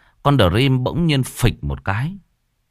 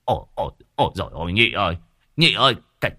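scared passenger; much faster than usual. Acted. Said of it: "vẫn cứ tim đập chân run".

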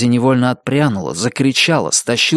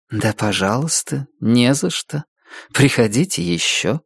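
restrained. Acted. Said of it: "сдержанно проговорила".

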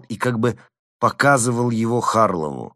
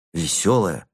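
plain reading voice

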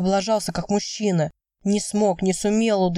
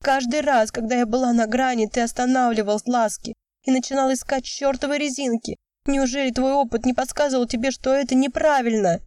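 high, raised angry shout; 6 semitones higher than usual. A narrator's reading. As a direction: keep yelling the accusation. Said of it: "Выкрикнув последнюю фразу". (продолжает кричать высоким голосом)

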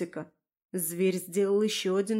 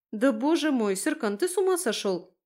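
higher, startled scolding of a pet; dismayed outburst; exasperated scolding; 4 semitones higher than usual. Acted. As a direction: scold your dog in exasperation. Scolding dog that deafened her.

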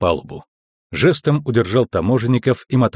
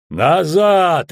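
higher, forceful command; barked order; 6 semitones higher, 3 dB louder than usual. A narrator's reading. Bald guard holding off the crew, barking. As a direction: bark them back. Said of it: "рявкнул он".

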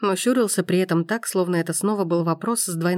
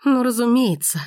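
higher, louder bitter of course; bitter resigned outcry; resigned exclamation; 6 semitones higher, 4 dB louder than usual. A narrator's reading. Gabrielle exclaiming bitterly at Forster, resigned. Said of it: "обречённо воскликнула Габриэль".

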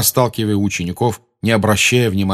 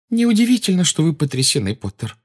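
stern matron; 9 semitones higher than usual. A narrator's reading. Matron voiced in story.

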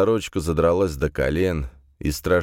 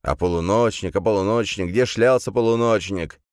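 raised, mildly mocking echo; mimicked questioning; 4 semitones higher than usual. Gendarme echoing Camille's question back, mimicked questioning. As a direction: mimic her nagging question, pitch climbing. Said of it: "Не стоит говорить".

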